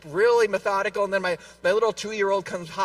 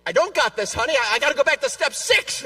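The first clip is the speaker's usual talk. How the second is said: stressed out; 6 semitones higher, 6 dB louder than usual. Retold or imitated. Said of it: "I'm all stressed out now".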